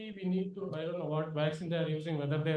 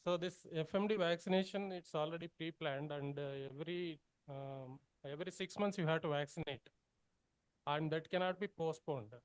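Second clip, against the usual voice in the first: barely audible; 6 dB quieter than usual. Real, not acted. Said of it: "it's coming very feeble".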